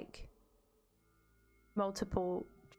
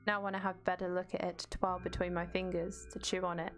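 measured, even read-aloud; story narration. A narrator's reading. Streamer reads game text to viewers, even narration. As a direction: narrate the game's text steadily.

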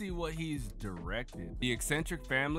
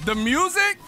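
surprised outburst; 9 dB louder than usual. Real, not acted. Sudden excited question.

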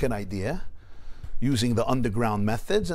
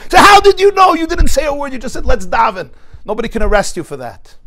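astonished questioning; 13 semitones higher, 14 dB louder than usual. Retold or imitated. Informer presses the Rebbe.

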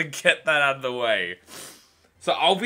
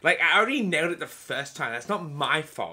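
diva voice. Acted. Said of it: "why have I chosen that voice for the whole thing".

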